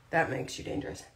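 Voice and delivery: unvoiced whisper, low. Real, not acted. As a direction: whisper the line to yourself. Repeats line, whispered.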